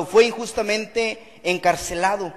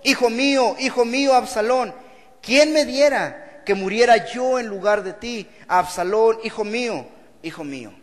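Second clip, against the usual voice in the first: wailing lament; 2 semitones higher, 3 dB louder than usual. Acted. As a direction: cry out for your son, then let it die away. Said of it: "y lloró, y yendo decía". (lamento desgarrado de un padre que llora, más alto y fuerte, que se apaga al final)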